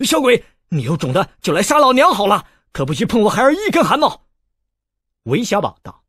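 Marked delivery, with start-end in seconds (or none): 0.1-4.3 high, loud plea from a panicked mother; frantic cry. A narrator's reading. A panicked mother shouts at the boy threatening her son, loud and high. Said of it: "叫道".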